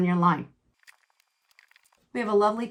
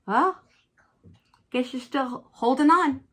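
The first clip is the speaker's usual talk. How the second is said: okay jumps very high, then a slow, drawn-out jab; mock the grudge she still holds; sarcastic retort; 5 semitones higher than usual. Imagined reply to a grudging mother-in-law, sarcastic and slow.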